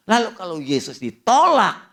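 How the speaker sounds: high, loud punch on ditolak; emphatic preaching. Acted. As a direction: hit "ditolak" hard, rising into a cry. Preacher hammers rejection of Jesus.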